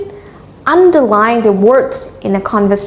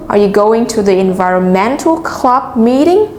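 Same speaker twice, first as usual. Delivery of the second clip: "environmental" stressed on ment only, question rising at the end; teacher's model question with ment emphasized in environmental; stress on key syllables. Shown as a demonstration. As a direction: hit ment in environmental, end "meeting" on a rise. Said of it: "chúng ta sẽ nhấn vào ment thôi".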